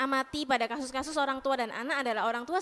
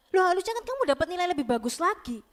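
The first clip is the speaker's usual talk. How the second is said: a touch of a scolding parent, higher, louder and fast; hint of a pushy parent, quick and raised; demanding parent; 5 semitones higher, 4 dB louder, faster than usual. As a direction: lightly mimic a parent who is never satisfied.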